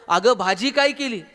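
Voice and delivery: mild retold shout; mock yell. Husband at the kitchen door to his wife, mock yelling. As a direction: raise the voice a little, imitating a yell. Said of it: "किचनच्या दारात जाऊन ओरडला".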